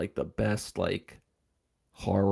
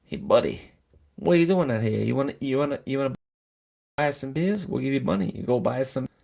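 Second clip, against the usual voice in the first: lightly put-on New York accent, pitched higher; a rough-edged New York bully imitation, half-hearted; 5 semitones higher than usual. Band bully pushing a kid to buy beers, mock New York accent. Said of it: "talking in a New York accent".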